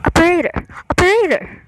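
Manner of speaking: breathy, near-crying operator; panicked whisper rising to a cry; desperate plea. Acted. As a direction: call out half in tears.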